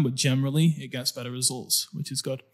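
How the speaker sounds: thin, weak voice that fades out. Real, not acted. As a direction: speak with a tired, weak voice. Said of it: "My voice is weak today".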